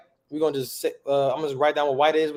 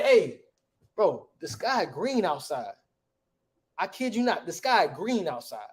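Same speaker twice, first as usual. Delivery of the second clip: slow, drawn-out street-talk amazement; casual disbelief; slower than usual. Pretend. Telling bro something crazy happened outside, casual disbelief. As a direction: tell a friend the unbelievable, slowly. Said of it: "if something crazy happened outside, we would say".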